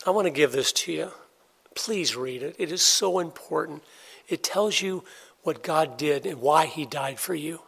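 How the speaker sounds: soft, earnest plea, slowing at the end; quiet sincere offer to a stranger; gentle invitation. Shown as a demonstration. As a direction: hand it over softly and sincerely. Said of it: "be faithful to go".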